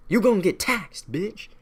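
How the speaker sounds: high-pitched mock taunt; taunting British. British threatening colonists with taxes, high and taunting. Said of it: "the British are like".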